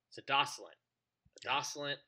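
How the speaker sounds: adoscilent with stress on DOSS; mispronounced word. Shown as a demonstration. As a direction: say Adoscilent the wrong way on purpose. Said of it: "the weird pronunciation I gave it".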